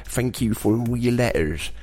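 lightly put-on accented host voice; a hint of a caricature radio presenter; Phil King. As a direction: greet listeners in a mild impression. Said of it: "do it in Phil King's voice".

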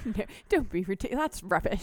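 quick, dismissive British put-on; mock British accent. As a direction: play an indignant Brit, briskly.

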